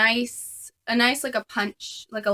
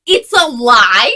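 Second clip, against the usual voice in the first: alarmed surprise; 11 dB louder, slower than usual. Retold or imitated. Realizing the SCOBY is alive.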